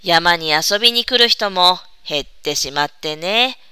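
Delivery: slow, soft and saddened; a little sad. Acted. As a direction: let a quiet sadness in. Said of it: "少し悲しそうに言いました".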